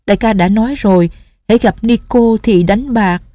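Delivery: put-on a wounded young girl holding back tears; young nun Nghi Lâm, hurt. Narrator voices young nun. (giọng cô gái trẻ hơi cao, tủi thân)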